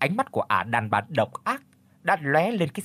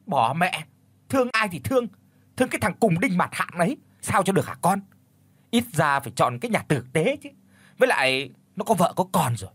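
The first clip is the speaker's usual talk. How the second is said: raised, angry scolding, higher pitch; angry father shouting; 5 semitones higher, faster than usual. Acted. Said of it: "rồi nói lớn".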